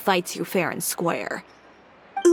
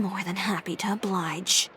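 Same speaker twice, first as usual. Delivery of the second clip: menacing whisper; 6 dB quieter than usual. Acted. Threatening aside about rival.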